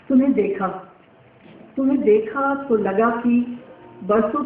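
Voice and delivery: measured verse reading, phrases set apart by pauses; poem recitation. Acted. Poet reciting verses written for a young girl, measured poetic recital. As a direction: recite it line by line, letting each phrase settle.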